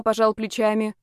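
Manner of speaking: usual speaking voice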